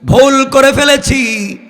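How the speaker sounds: high chanted wail, long-held opening cry. Retold or imitated. Weeping youth confesses his wrong to God, chanted wail. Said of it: "যুবক কাঁদতেছে আর ডাক দিয়া বলছে".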